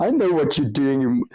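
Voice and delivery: plain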